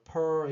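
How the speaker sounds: per said with an 'uh' vowel; schwa-like 'er' vowel. Shown as a demonstration. Teacher showing the phonetic symbol, per with 'uh'. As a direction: say per as a steady "puhr". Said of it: "어 하고 발음 나요".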